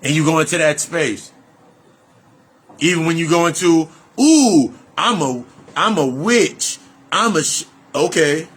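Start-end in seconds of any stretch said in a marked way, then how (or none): 4.2-7.7 mock witch boast. Mocking people who call themselves witches, in a hammed-up squeal. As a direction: ham up a spiritual person proudly declaring witchhood.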